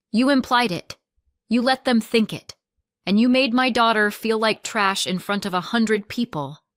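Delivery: accusing. Acted. Joelle confronts her sister on the phone, loud and accusing. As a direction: hit her with every charge.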